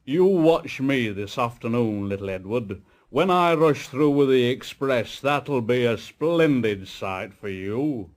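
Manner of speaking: a touch of a boastful big engine voice; lightly voiced, puffed-up show-off; proud big engine. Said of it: "He was very big and very proud".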